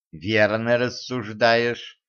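very slow, lordly approval; gracious, condescending. Acted. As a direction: grant it like a queen to a servant. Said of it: "милостиво кивнула царевна". (милостиво, очень медленно)

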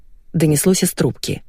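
usual speaking voice

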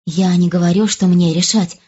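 plain reading voice

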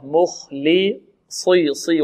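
مخلصي drawn out with a thick ص; heavy saad. Shown as a demonstration. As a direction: slowly give a full emphatic "ṣee" in صي. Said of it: "والصاد مفخمة".

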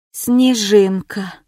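name exhaled slowly and weakly; barely breathing the word out; breathed out. Acted. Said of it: "Не сказала, а скорее выдохнула".

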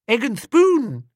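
put-on high, proud childish reply; little girl voice. A narrator's reading. Little girl telling Bertie her race, high and proud. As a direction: chirp it like a small girl.

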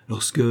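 "lorsque" left hanging mid-sentence; breaking off abruptly. A narrator's reading. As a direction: cut off suddenly after "lorsque". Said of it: "Elle s'arrêta brusquement". (« lorsque » interrompu brusquement, en suspens)

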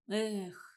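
mild sighed "Эх"; wistful sigh. A narrator's reading. Серёжа sighing by the campfire, wistful. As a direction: let out a small wistful sigh. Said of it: "Серёжа вздохнул".

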